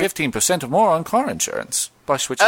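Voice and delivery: a hint of a Cockney gecko, slowing down; playing the insurance gecko, only lightly put on; lightly voiced Geico Gecko. Answering a mock interview as the Geico Gecko, lightly voiced. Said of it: "Geico Gecko".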